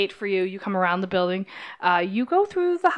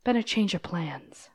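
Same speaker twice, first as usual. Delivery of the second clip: softer, slow confidential murmur; confiding aside; 5 dB quieter than usual. Acted. Hostess confiding to the boys, softer. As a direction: lean in and tell a secret. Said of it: "the woman leans over and goes".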